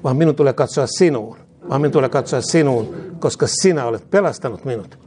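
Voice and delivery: fervent call-and-response prayer, falling ends; led prayer. Real, not acted. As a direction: lead the congregation line by line, each phrase said twice. Leads repeat-after-me prayer. (esirukous toistettavaksi)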